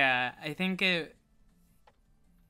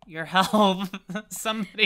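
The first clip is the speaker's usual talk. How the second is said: loud, high call for backup; playful cry for help; 6 semitones higher, 11 dB louder than usual. Pretend. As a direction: call out urgently in mock panic. Calling for help in game.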